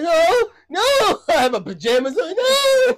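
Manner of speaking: high whiny crying no; mock tearful pleading; crying kid pleading. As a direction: beg like a scared child. Crying child voiced.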